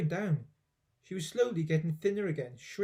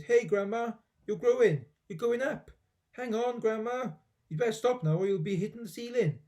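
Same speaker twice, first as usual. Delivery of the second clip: higher, louder alarmed calls; shouting; 6 semitones higher, 4 dB louder than usual. A narrator's reading. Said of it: "gave a jump and shouted".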